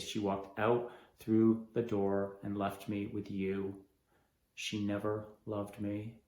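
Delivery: slow, low, shattered; broken grief. Acted. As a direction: say it like it breaks you.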